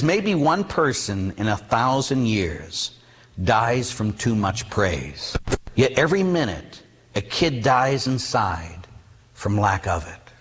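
slow, weighty read-out; grave, measured quotation; solemn letter reading. Retold or imitated. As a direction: read the note slowly, letting each phrase land. Reads the kid's note solemnly.

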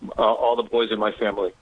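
usual speaking voice

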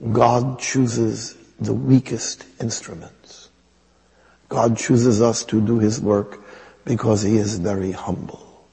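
put-on very slow, deliberate words in an Indian accent; lightly Indian-accented, slow and earnest; Mother Teresa's Indian accent. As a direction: imitate her Indian accent, weighing each word. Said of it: "I have to use the accent".

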